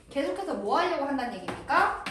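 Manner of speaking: normal talking voice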